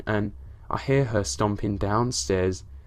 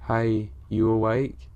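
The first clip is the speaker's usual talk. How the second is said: slurred. Retold or imitated. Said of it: "she slurred".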